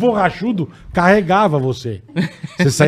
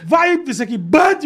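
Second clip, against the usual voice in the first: high call to the dog; 9 semitones higher, slower than usual. Retold or imitated. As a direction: shout the dog's name. Calling the dog off. (chamando alto)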